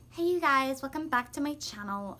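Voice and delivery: loud hyped channel greeting; perky influencer intro; YouTuber voice. Pretend. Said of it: "if I ever start talking like that".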